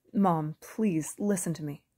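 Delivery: slow, loud pleading. Acted. Bo pleading into the phone, slow and loud. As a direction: beg slowly, each word weighed. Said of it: "I pleaded".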